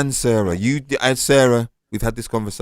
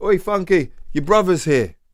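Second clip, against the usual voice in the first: put-on, high, drawn-out calling-out voice; 8 semitones higher than usual. Retelling how someone called a friend over: imitating someone calling out. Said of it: "he didn't say it into the mic like this".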